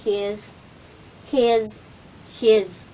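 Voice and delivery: HIS drilled with a final Z, he's; Z ending. Shown as a demonstration. Teacher having learners repeat after her, Z ending. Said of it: "So, ulitin natin".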